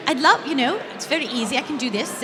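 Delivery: put-on light, soft English accent; audition-style English accent, easy and assured. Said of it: "I can do an English accent".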